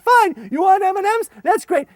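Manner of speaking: loud high scheming offer. Retold or imitated. Luring kids onto the plane, loud high. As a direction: set the trap with relish. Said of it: "I said".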